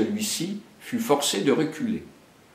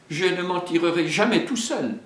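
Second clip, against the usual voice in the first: higher, worried muttered thought; bear thinking aloud; 8 semitones higher than usual. Acted. Baloo worries alone after the fight, higher voice. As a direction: fret to yourself. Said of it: "songea-t-il".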